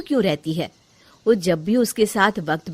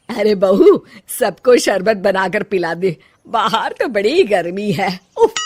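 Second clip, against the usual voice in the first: a touch louder, lightly voiced mother-in-law; lightly hammed-up household matriarch; bossy mother-in-law; 6 dB louder than usual. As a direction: order the daughter-in-law about casually. Voices mother-in-law ordering drinks.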